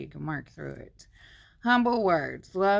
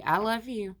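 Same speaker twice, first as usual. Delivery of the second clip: "I love you." said as a sincere statement with a falling close; 5 semitones higher, 3 dB louder than usual. Shown as a demonstration. Teaching a Bible class how a sincere statement sounds, falling. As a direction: say "I love you." and mean it, stress on "love". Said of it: "That sounds good".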